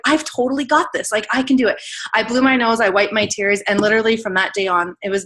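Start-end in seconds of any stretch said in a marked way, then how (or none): 0.0-1.8 higher, determined self-talk; reliving a fired-up resolve; pumped up. Retold or imitated. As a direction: retell a surge of confidence. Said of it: "I was literally so pumped".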